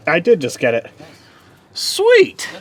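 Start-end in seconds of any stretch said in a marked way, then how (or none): 1.7-2.5 excited. Real, not acted. Part finally in place.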